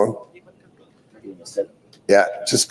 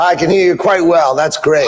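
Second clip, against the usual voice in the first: on speakerphone; 8 semitones higher than usual. Real, not acted. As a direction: voice through a phone speaker. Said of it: "You're on speaker".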